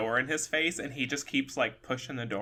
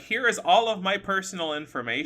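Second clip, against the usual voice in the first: higher-pitched, fed-up insistence; retold flustered exasperation; 5 semitones higher than usual. Woman retold showing her ID to a staring stranger, flustered. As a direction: act out mildly flustered impatience. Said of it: "getting herself all flustered about this".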